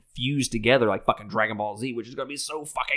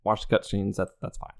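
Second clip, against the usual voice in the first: disappointed passive-aggressive; 3 semitones higher than usual. Real, not acted. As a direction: let them off, but sound let down. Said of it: "that was the most disappointed, passive-aggressive voice".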